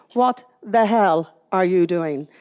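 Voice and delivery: drawn-out stunned disbelief, slow; a slow, appalled question to herself. Retold or imitated. At the station sign, slow stunned disbelief.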